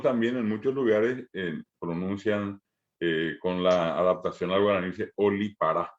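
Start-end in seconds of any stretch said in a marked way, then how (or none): 5.2-5.9 olipará with a clear L in the middle, o-li-pa-RÁ; teacher shows olipará, L for the D, stress on the last syllable. Shown as a demonstration. Teacher shows students the local pronunciation, olipará with an L.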